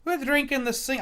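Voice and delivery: high-pitched, wobbly attempt at Scottish; muddled Scottish accent. Streamer trying out an unsure accent, muddled Scottish. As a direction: slip into bad mock-Scottish and break off. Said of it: "I don't know what accent that is".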